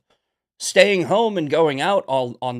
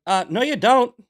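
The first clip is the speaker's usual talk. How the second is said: snippy, higher mock reply; snippy retort; 9 semitones higher, 6 dB louder than usual. Contractor snapping back at the client over the pan liner, snippy. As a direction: flick it back, snippy and sure. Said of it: "I got snippy with him".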